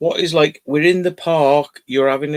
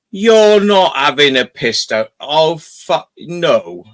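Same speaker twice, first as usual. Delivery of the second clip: dismayed outburst; 3 semitones higher, 5 dB louder, slower than usual. Retold or imitated. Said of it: "and I just went".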